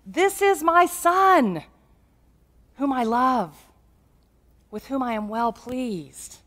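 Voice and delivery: imitated voice from heaven softening by the end; loud cry, easing off. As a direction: proclaim it slowly, then let it ease down. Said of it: "and a loud voice cries out".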